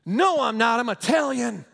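loud, hammed-up indignant retort; mock angry denial. Husband denies to the pastor that he is angry, mock indignation. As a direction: play an offended husband protesting loudly. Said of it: "You're angry".

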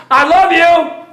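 high, loud burst of fatherly love; joyful father. Acted. The Father declaring love to his son, joyful shout. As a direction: cry it out like a proud father.

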